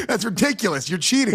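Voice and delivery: real amused outrage; laughing protest. Real, not acted. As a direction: protest while still laughing. Laughing at the unfair advantage.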